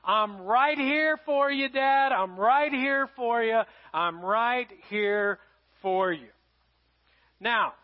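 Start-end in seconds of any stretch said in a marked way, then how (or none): 0.0-6.3 reassuring daughter. Retold or imitated. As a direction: promise it slowly and firmly. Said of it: "she said these words".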